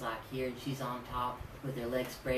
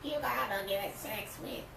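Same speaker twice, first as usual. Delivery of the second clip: put-on New Orleans accent; 8 semitones higher, slower than usual. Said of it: "He didn't talk like that, but I can".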